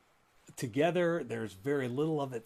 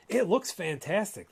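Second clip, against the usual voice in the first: mock wow; 6 semitones higher, 6 dB louder than usual. Mocking the website's glossy look.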